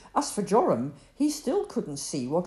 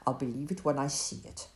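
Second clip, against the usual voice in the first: snapped; 4 semitones lower than usual. Acted. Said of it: "he snapped".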